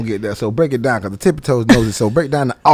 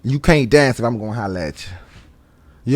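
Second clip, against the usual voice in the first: low, slow mocking man's voice; lightly voiced boyfriend putting her down; quoting a man; 3 semitones lower, 4 dB quieter, much slower than usual. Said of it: "he say".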